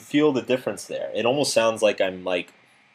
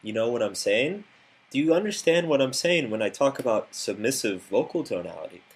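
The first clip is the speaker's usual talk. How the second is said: every phrase ending on an upward lilt; submissive rising tone; 2 semitones higher than usual. Shown as a demonstration. Coach demonstrating a needy, approval-seeking voice, rising endings. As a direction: sound unsure, tilting each ending up for approval. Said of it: "to talk to people like this".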